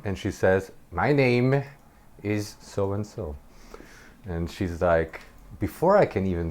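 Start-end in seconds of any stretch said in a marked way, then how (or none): 0.9-3.4 weird witch voice. Retold or imitated. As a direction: lightly imitate a witchy introduction. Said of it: "with this weird witch voice".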